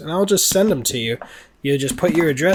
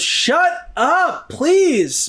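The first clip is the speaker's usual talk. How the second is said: much higher, louder snap; mock shushing yell; 14 semitones higher, 5 dB louder, much slower than usual. Audience member yelling back at Lincoln. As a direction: tell him to shut up. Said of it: "someone just goes".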